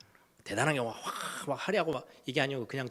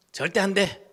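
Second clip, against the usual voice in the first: higher, louder flat refusal; firm mother's no; 6 semitones higher, 6 dB louder than usual. Retold or imitated. A mother refusing her child in the store, loud and high. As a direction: slam the door on the request.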